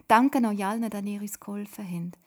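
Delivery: laut und herzlich ausgerufen; lauter Dank. Acted. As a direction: ruf deinen Dank allen laut zu. Jakob dankt allen erleichtert. (Jakob dankt der Familie laut und herzlich)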